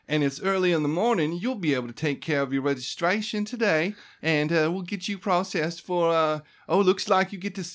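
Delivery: high, sing-song receptionist voice; chirpy clerk. Acted. Debbie registering new arrivals, chirpy and high. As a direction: run through the forms like a cheerful desk clerk.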